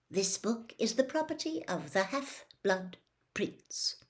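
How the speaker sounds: mysterious hushed whisper. A narrator's reading. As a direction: read the secret words in a whisper. Secret inscription read aloud.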